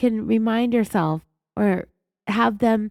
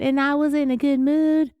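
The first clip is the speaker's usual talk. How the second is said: slightly raised, singsong put-on voice; fake high-pitchy friendly voice; 3 semitones higher than usual. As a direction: lightly mimic her fake friendliness. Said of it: "her fake-ass, high-pitchy, friendly voice".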